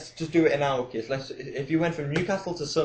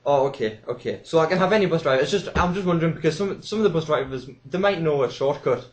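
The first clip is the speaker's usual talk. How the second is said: put-on louder, fussy old lady rambling; elderly woman caller; 2 semitones higher, 3 dB louder than usual. Old caller explaining bus drivers to the DJ, loud and fussy. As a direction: dither on like a confused pensioner. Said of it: "And it's like".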